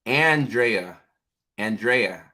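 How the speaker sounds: Andrea as ann-DRAY-uh; trying out pronunciation. Real, not acted. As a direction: sound out "Andrea" with "Ann" first, then DRAY. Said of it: "how to pronounce things".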